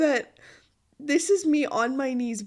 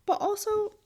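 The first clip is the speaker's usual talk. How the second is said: laughing panic; 8 semitones higher, 4 dB louder than usual. Real, not acted. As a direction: admit the panic through a laugh. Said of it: "I am panicking".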